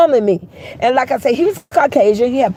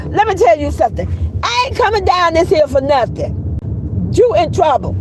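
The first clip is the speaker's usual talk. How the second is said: scolding; 3 semitones higher than usual. Retold or imitated. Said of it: "say trouble to him".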